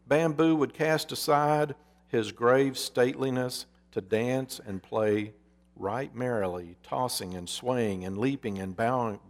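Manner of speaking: storyteller reading a parable, measured and vivid; story narration. A narrator's reading. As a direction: tell the fable as from the pulpit. Preacher reads a parable aloud.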